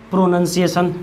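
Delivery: "प्रोनाउंसिएशन" with "nun", not "noun"; correct pronunciation. Shown as a demonstration. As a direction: say "प्रोनाउंसिएशन" as pro-nun-si-ation. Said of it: "प्रोनाउंसिएशन भी थोड़ा सा देख लेना".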